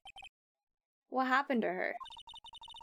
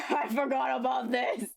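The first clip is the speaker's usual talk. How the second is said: shouting through laughter; laughing. Real, not acted. Laughing at a forgotten character.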